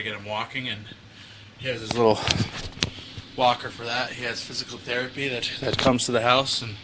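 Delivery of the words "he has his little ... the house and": winded from carrying his son; a little breathless after carrying; out of breath. Real, not acted. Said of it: "Sorry, I'm a little bit winded".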